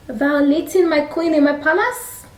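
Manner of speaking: high, hammed-up royal outrage; extra anger. King catching Haman with the queen, acted extra anger. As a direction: cry it high in mock fury. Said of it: "Extra anger".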